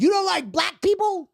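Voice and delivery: high, carrying mock shout; real loud accusation. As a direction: imitate calling someone out publicly. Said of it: "he goes real loud".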